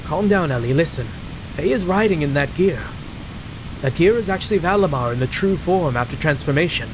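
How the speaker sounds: lightly British-tinged game character; a hint of British in the voicing; British accent. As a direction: explain patiently with a slight British lilt. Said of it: "why is Citan British".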